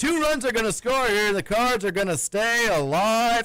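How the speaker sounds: mock play-by-play announcer, utterly crushed and despondent. The speaker retells a baseball announcer's call of a late single, mock-devastated. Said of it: "sounds like his dog just got murdered".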